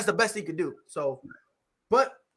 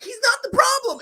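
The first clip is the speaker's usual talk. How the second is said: mock crying whine; 13 semitones higher, 3 dB louder than usual. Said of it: "He was crying about it".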